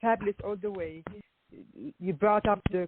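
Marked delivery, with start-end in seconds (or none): none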